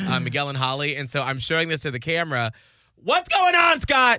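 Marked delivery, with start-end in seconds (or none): 3.0-4.2 high, loud teasing question. Real, not acted. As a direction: needle him playfully. Teasing Scott about date.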